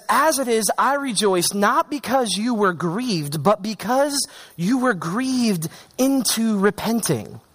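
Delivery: slow, deliberate Bible reading; scripture reading. Acted. Preacher reading Paul's letter to the church, deliberate scripture reading. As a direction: read the verse out with measured weight.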